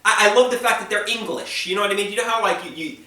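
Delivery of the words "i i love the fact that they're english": admiring quote. Retold or imitated. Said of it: "you hear their accent and you think".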